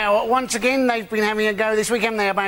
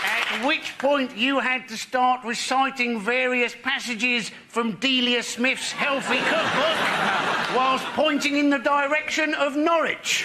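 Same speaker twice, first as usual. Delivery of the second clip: slow, building to a shout; mock muezzin build-up, slow then shouting; mock call to prayer; 3 semitones higher, slower than usual.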